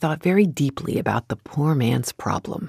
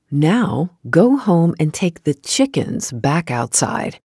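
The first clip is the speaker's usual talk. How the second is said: calmly; 2 semitones higher than usual. Acted. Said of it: "said calmly".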